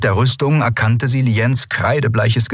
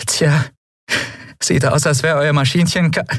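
higher-pitched smug taunt, cut off abruptly; mocking; 8 semitones higher than usual. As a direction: gloat until cut off mid-word. Kichernder Spott, jäh abgebrochen. (spöttisch, hoch, jäh abgebrochen)

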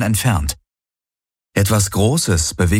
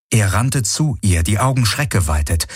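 usual speaking voice

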